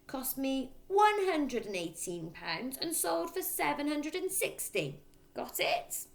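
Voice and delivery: dictating father. A narrator's reading. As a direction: spell out each figure like an order.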